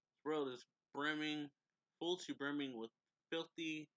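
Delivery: a villain raving about humans from the sky; villain rant. Acted. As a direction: spit the words out in a rising fury.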